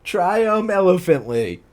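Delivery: "Triumphantly" slow and high, as try-um-elephant-ly; misspelling read aloud. Shown as a demonstration. Reader savouring the fanfic's misspelling, "Triumphantly" as try-um-elephantly. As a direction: stretch "Triumphantly" into tri-um-ELEPHANT-ly. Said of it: "look how they spelled that word".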